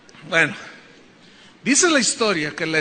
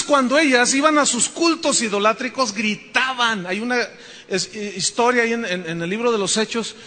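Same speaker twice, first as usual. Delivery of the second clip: usual speaking voice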